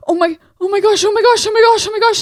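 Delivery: high, loud, frantic repeated gasping words; frantic husband on the phone; panicked. Retold or imitated. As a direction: imitate a husband in full panic. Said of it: "And he's freaking out".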